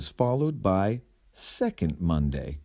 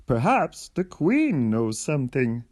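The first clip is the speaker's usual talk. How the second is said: helpful suggestion; 4 semitones higher than usual. Acted. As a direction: offer the idea brightly. Character suggests asking the queen.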